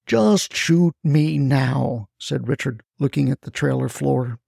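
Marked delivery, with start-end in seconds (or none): 0.1-2.1 weary and defeated. Acted. Richard defeated, asks to die.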